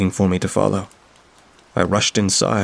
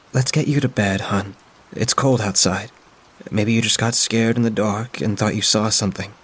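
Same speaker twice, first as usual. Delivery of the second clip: a hint of a kind older woman, soothing; lightly voiced friend, gently puzzled; 2 semitones higher than usual. Friend insists the door was open, lightly voiced and soothing.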